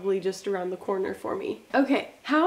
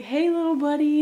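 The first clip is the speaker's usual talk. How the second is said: put-on higher, louder coo to a tiny baby; imitated sweet greeting; 6 semitones higher, 5 dB louder than usual. Husband greeting the baby in her belly, imitated sweet greeting.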